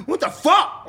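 high, loud, laughing through a retold what the fuck; cracking up while acting out his shock; laughing disbelief. Retelling his partner's outburst to the host, laughing high and loud. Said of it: "I was like".

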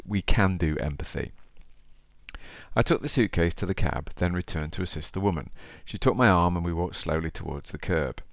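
storytelling read aloud; story narration. Acted. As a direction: read it like an audiobook. Reads the cabbie story aloud.

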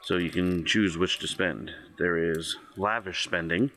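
even, measured GM read-out; game master narration. Acted. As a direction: lay out the options like a shopkeeper menu. GM reads shop options.

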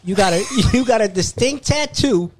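laughing, rising to a loud high shout; retold call-out. Storyteller replays catching her lie, ending in a laughing shout. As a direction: build from a slow tease to a triumphant yell. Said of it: "And I was like".

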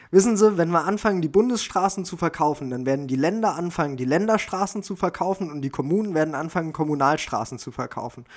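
a hint of Gysi mocking threat, pitch climbing; Gysi impression. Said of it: "da sagt er".

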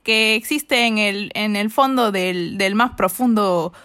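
put-on light Mexican accent, telling where she comes from; playful Mexican Spanish, a touch hammed. Answering the host about her hometown in Mexican accent. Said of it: "vienes de Iztapalapa?".

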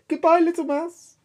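very high yelp; frightened snake. Acted. Snake flees.

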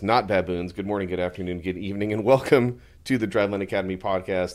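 ringmaster. Acted. Showman intro to the podcast.

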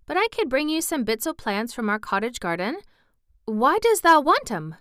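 lightly voiced Yorkshire boy, keen; country lad, helpful. Boy offering plants from cottage garden, helpful. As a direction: offer help in a lively country dialect.

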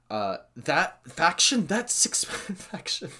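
giddy anticipation. Real, not acted. Fan picturing his dream faction, giddy and slow.

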